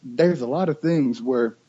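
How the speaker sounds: usual speaking voice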